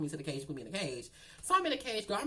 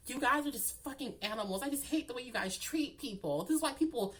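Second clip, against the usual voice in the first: higher, softened mock complaint; imitated indignant whine; 6 semitones higher than usual. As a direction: lightly mimic an aggrieved whiner. Voices the woman complaining again.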